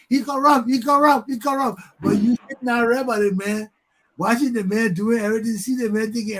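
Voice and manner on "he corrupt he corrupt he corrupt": high, loud mocking chant; mock yelling. Idle crowd chanting at corrupt man, high mock yell. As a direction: chant it like a crowd that only complains.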